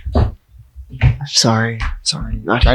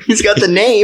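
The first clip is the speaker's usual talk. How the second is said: high mock voice; 8 semitones higher than usual. Teasing superhero voice.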